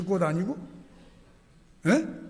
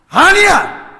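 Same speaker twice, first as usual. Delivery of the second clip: high, loud "아니야!"; emphatic shout; 11 semitones higher, 13 dB louder, much slower than usual. Acted. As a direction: refuse outright, full voice. Preacher's firm refusal.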